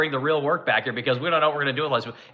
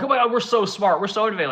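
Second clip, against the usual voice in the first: smug mock boast; 5 semitones higher, faster than usual. Mocking national self-praise.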